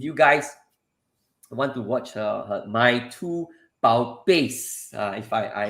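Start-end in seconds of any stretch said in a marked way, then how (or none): 2.5-4.9 "Bao Beis" said slowly, unsure Mandarin tones; careful learner's try at "My Two Bao Beis"; foreigner speaking mandarin. Shown as a demonstration. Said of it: "I pronounce it correctly".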